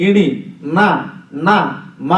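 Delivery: ఇణి, న, న, మ said singly through the nose; nasal sounds. Shown as a demonstration. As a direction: isolate each nasal, ఇణి, న, న, మ. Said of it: "ఇవి ముక్కుతో పలుకుతాం".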